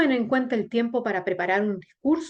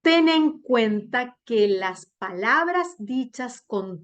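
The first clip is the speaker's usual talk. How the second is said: modulated reading; slower than usual. Shown as a demonstration. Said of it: "hagan ejercicios de modulación exagerada".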